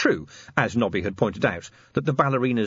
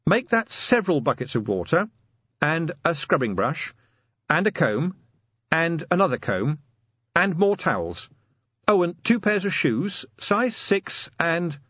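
higher-pitched list with pauses between items; Angua, commanding sergeant; 7 semitones higher than usual. A narrator's reading. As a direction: sergeant adding to her orders piece by piece.

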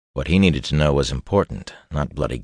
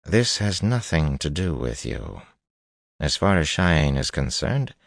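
cold; slower than usual. Acted. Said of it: "cold as a fish".

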